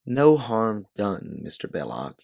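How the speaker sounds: slow, lightly put-on genteel accent; mild faux Southern-lady accent. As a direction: ease back into the fake accent, slowly. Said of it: "you say in your faux accent again".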